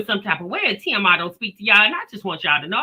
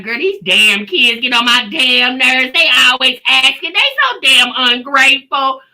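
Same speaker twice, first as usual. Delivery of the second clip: louder, slowed venting to a homegirl; mock complaining mom; 6 dB louder than usual. Mom griping to her homegirl on the phone, mock exasperated and louder. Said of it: "we gonna be like".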